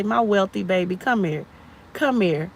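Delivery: soft, tender call, acted out; comforting mother. Mother showing how she calls her hurt daughter over, softly comforting. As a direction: coax a hurt child close, softly.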